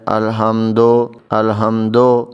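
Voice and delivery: الحمدو with an added o on the end; common mistake. Retold or imitated. Teacher imitating how people misread الحمد as الحمدو. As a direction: say الحمدو slowly, wrongly ending in o. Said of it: "لوگ کیا پڑھتے ہیں؟".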